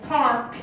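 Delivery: Park with the R sounded by a rolled tongue; American R in Park. Shown as a demonstration. Student showing how it is pronounced, R sounded in Park. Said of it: "so how we pronounce it?".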